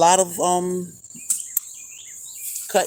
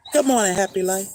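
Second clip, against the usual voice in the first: country voice; 4 semitones higher, faster than usual. Shown as a demonstration. Vlogger greeting viewers in her country voice, good morning drawled. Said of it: "My country voice".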